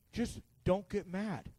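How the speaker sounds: understated, slowed reply; calm brother. Retold or imitated. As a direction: play an unbothered sibling, quiet and slow. Brother acted telling sibling to calm.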